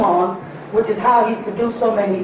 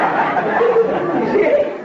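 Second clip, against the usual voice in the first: laughing; 10 semitones higher, much slower than usual. Real, not acted.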